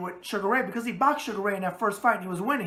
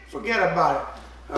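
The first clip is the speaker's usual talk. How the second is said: New York catchphrase; 2 semitones lower than usual. Acted. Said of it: "and the New York thing".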